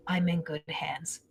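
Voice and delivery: breathy hushed whisper, almost no voice. Retold or imitated. Relaying her son's words to the mother in a whisper. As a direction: let it drop to a secret whisper.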